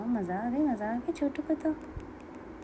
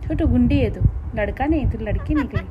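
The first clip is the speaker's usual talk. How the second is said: teasing; 10 dB louder than usual. Real, not acted. Teasing bird loudly while laughing.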